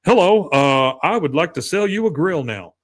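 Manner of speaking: lightly voiced stiff, schmoozy sales pitch; schmoozy salesman. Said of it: "Being the, the schmoozy salesman".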